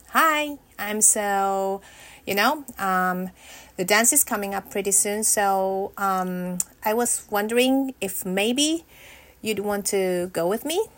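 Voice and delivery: halting, hesitant ask full of ums; nervous. Pretend. Rehearsing asking a boy to the dance, nervous and stumbling. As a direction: stumble through the invitation with jittery nerves. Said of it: "Way too nervous".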